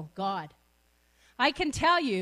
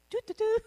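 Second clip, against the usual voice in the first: soft trumpet imitation; 7 semitones higher, much faster than usual. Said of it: "Was that a trumpet?".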